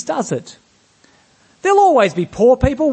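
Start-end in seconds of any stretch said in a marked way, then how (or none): 1.6-2.9 callous. Retold or imitated. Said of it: "it doesn't sound like Jesus".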